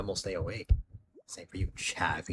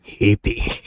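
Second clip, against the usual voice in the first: whispered; 9 dB louder than usual. Acted. Whispered joke after laughing.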